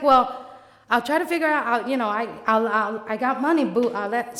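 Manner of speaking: loud stammering reassurance; trying to calm her down; lightly voiced flustered friend.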